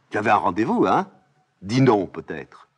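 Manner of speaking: nosy nurse pushing for an answer; prying old nurse. Acted.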